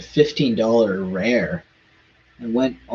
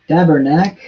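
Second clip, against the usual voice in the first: Quebec swear; 4 semitones higher, 6 dB louder than usual. Shown as a demonstration. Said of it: "That's what I'd be saying if I got a really bad card".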